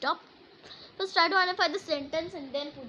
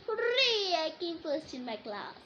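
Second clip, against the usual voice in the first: joyful cheer; 3 semitones higher than usual. Shown as a demonstration. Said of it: "So, how you read?".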